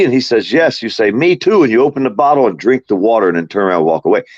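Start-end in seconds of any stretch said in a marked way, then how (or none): 1.1-1.6 smug reply. Shown as a demonstration. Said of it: "let me show you how".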